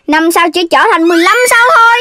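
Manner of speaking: excited boast. Acted. Excited boast, shouted and fast.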